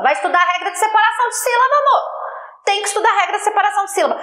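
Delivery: high, rapid-fire retort; exasperated mock scolding. Teacher sending a student to study syllable division, exasperated scolding. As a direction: tell them off fast and high.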